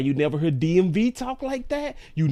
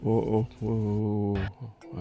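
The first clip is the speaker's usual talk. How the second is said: quick stop; 5 semitones lower, 4 dB quieter, much slower than usual. Real, not acted. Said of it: "I ain't wanna show that".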